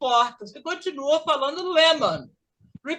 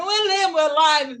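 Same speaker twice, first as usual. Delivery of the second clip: correcting; 4 semitones higher, 5 dB louder than usual. Retold or imitated. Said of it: "Aí eles falam".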